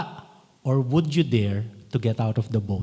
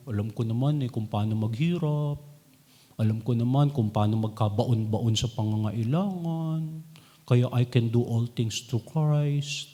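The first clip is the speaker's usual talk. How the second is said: whiny self-pity; 4 semitones lower, 4 dB quieter than usual. Shown as a demonstration. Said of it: "No, this is not the tone of this statement".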